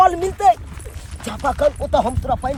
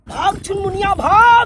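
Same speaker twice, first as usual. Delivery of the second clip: high, raised-voice urging; urgent shout; 5 semitones higher, 4 dB louder than usual. Acted. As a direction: drive her on as pursuers close in. Lover urges girl to flee. (घबराहट में भागने की पुकार)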